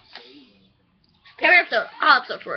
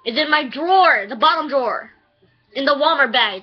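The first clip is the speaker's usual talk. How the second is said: real yelling; 2 semitones higher than usual. Real, not acted. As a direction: shout the directions across the house, frantic. Yelling at brother about lunchbox.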